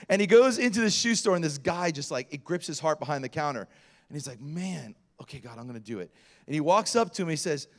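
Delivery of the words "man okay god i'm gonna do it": quiet, resigned aside to God; reluctant private prayer. Retold or imitated. Man giving in to God before approaching a stranger, quiet and reluctant. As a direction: say it low, under your breath.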